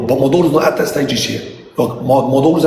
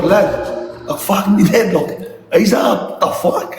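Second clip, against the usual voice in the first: incredulous, laughing through the words; mock outrage through laughter; laughing disbelief; 3 semitones higher, slower than usual. Disbelief at son's hug trick.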